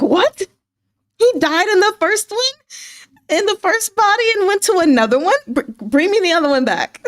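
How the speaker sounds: high-pitched wail of disbelief; mock upset. Fan protesting a character's death, mock-upset high wail. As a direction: replay your distress in a hammed-up, tearful squeal. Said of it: "I've never been so upset".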